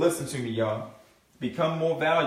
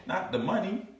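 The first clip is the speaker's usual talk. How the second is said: normal talking voice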